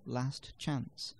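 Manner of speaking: "last chance" slow, with s, t and ch all sounded; slow, careful "last chance"; separate consonants. Shown as a demonstration. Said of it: "which contain three consonant sounds in the middle".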